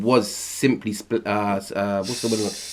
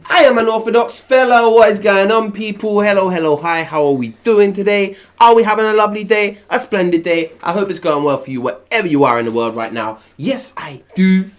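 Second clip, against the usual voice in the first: high, loud, plummy host greeting; hammed-up proper gentleman; posh host voice; 9 semitones higher, 4 dB louder than usual.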